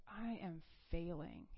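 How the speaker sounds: slow, hushed half-whisper; defeated confession. Retold or imitated. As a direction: admit it low and slowly, as if crushed. Retold confession of failing to God.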